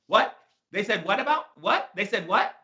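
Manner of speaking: lightly acted baffled questions, rising; mock disbelief. Shown as a demonstration. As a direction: play at not believing what was said. Acting out disbelief at hearsay.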